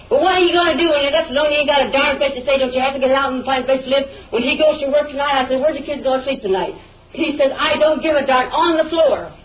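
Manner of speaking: worked-up, insistent complaint; yelling. Real, not acted. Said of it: "why you're yelling at me".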